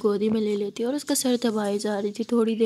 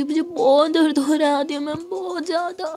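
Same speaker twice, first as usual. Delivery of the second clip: pained whimper; 5 semitones higher than usual. Acted. Hungover girl cries in pain.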